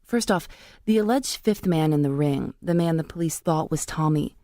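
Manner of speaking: measured, scripted narrator read; podcast narration. Real, not acted. Reporter tracking a script about case files, measured narration.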